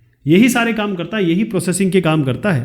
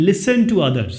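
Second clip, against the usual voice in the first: slow, careful reading of the quiz sentence; slow question reading; much slower than usual. Shown as a demonstration. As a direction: read each word out slowly for the class. Reads slowly. (धीरे-धीरे प्रश्न पढ़ना)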